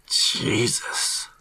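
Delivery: drawn, whispery murmur. A narrator's reading. Robbie reacting to the corpse, hushed murmur. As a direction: breathe it out under your breath. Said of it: "Robbie murmurs".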